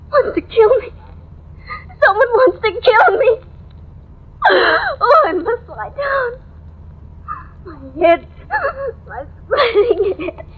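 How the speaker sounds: frightened, tearful rambling; woman alone, terrified of a killer. Acted. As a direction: near panic, close to tears.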